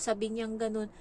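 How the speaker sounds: ordinary delivery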